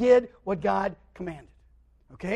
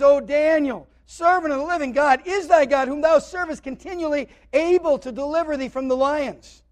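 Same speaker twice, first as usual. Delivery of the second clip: raised, pleading mock lament; higher-pitched imitation of a sorrowful king crying out; lamentable cry; 3 semitones higher, 5 dB louder than usual. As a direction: call out an anguished question, acted. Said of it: "He cries with this lamentable voice".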